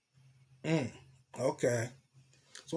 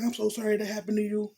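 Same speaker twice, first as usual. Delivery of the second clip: voicing the woman higher, scolding and worried; a lightly voiced, higher fretful woman; girl's worried voice; 5 semitones higher than usual. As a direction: play the anxious girlfriend fussing over him. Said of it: "she's like".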